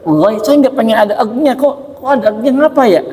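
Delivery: mock puzzled student; puzzled reader. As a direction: act puzzled at the sound. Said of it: "kayak baca".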